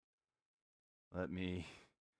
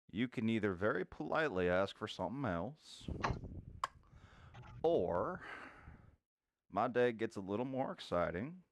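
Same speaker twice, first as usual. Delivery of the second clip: calm cowboy threat; 2 semitones lower, 3 dB quieter than usual. Acted. Cowboy holds pistols to the patron's head, calm and menacing. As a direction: threaten him coolly, taking your time.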